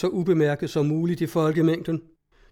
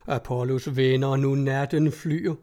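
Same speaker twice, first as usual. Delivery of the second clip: mocking. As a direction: read it as worthless drivel. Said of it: "hør så dit vås". (hånligt, dæmpet citat)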